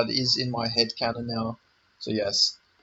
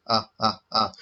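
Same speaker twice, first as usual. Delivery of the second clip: Count laugh; 3 semitones lower than usual. Retold or imitated. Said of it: "the Count from Sesame Street".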